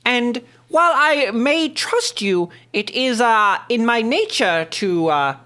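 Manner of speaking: smooth, slow aristocrat; noble businessman voice. Acted. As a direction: purr like a sly noble. GM voicing noble character.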